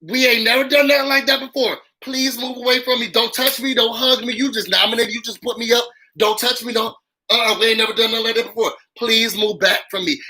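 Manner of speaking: lightly voiced, huffy reenactment of her upset; hammed-up offended recoil; mock upset houseguest. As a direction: act out her fuss, half-mocking. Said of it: "she got so upset".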